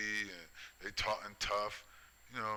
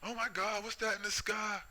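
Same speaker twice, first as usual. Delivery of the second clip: much higher, squeaky mocking alarm; mock panic; 12 semitones higher than usual. Mocking unbelievers who see something in the sky, high mock alarm. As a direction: mimic a scared person pointing at the sky. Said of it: "They be freaking out and shit".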